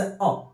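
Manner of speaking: अ said as a short soft schwa; a quick light अ, barely voiced; schwa sound. Shown as a demonstration. Teacher isolates the schwa sound, soft and short. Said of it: "मतलब हल्का अ कहते हैं".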